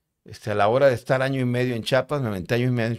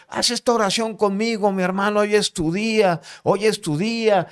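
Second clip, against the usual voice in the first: high, loud exhortation; raised, insistent evangelist cry; fervent urging; 10 semitones higher, 6 dB louder than usual. Retold or imitated. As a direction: retell a prisoner's impassioned call to pray. Acted urgent call to pray.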